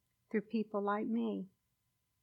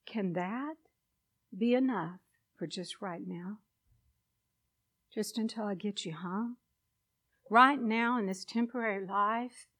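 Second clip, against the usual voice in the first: kindly asking. Retold or imitated. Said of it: "he asked me very kindly".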